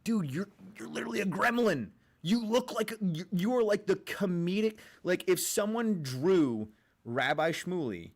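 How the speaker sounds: high-pitched, stammering disbelief; mock incredulous. Streamer addressing a rabbi about his looks, mock incredulous. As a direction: pitch it up as baffled mockery.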